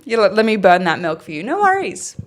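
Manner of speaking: lightly voiced cheery barista; a hint of chirpy café politeness; customer service voice. Shown as a demonstration. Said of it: "you want a demonstration?".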